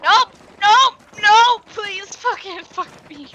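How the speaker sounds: loud, drawn-out desperate begging; panicked pleading. Real, not acted. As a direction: beg loudly as you're cornered. About to die in game.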